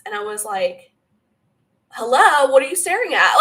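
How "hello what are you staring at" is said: raised, loud, half-laughing indignation; mock indignant challenge. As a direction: retell confronting someone who stares, high and amused. Retells challenging the staring entities.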